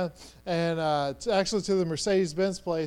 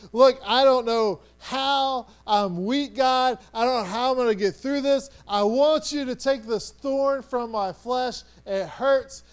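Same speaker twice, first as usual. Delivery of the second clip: acted pleading, raised in pitch and force; pleading prayer; 4 semitones higher than usual. Paul begging God about the thorn, pleading hard. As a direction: beg urgently, as if wrestling for help. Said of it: "he's pleaded with God three times".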